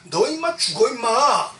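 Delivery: half-acted fatherly elder brother telling him off; big brother scolding. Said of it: "큰 형 엘리압이 막 야단쳐요".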